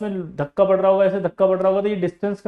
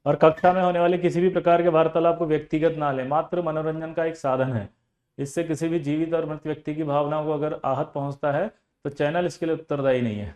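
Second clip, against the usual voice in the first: 1 formal disclaimer. Acted.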